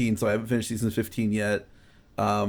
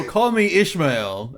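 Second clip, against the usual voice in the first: mock literary line; 2 semitones higher, much slower than usual. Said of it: "just go".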